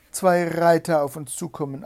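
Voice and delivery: high, loud report from afar; excited calling. A narrator's reading. Sister spots two riders, calling out. Sister calls sighting from tower.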